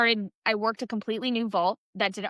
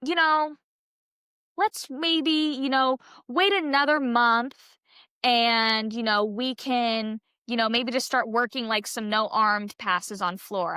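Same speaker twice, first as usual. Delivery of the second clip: a light, upbeat take on a coach gently bargaining; imitating her coach; 3 semitones higher, slower than usual. Coach coaxing an injured gymnast to keep training, mildly imitated higher and cheery. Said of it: "She's like".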